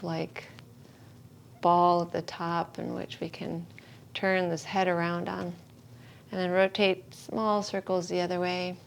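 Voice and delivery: unhurried yoga-teacher guidance with long pauses; calm, spacious meditation instruction; guided meditation. Real, not acted. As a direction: settle the class into stillness, phrase by phrase. Guides gentle head movements.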